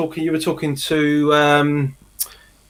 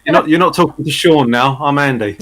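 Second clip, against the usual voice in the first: laughing correction. Real, not acted.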